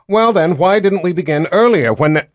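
put-on high, loud whiny girl voice; petulant young queen. A narrator's reading. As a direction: whine like a spoiled young queen. Violet protests, interrupted.

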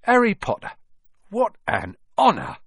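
put-on awed old barman. A narrator's reading. Old barman overwhelmed to meet Harry, high and gushing. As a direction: gush with honoured delight. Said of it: "the old barman".

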